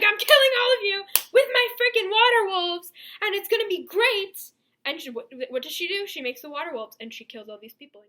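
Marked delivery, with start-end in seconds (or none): 0.0-4.5 mock triumphant threat. Voicing Feyre's triumphant threat.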